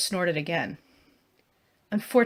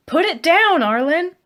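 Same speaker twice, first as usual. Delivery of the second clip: high, loud yelled command; desperate shout; 10 semitones higher, 9 dB louder than usual. Acted. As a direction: yell over the chaos at him. Shouting at Arlen during bear attack.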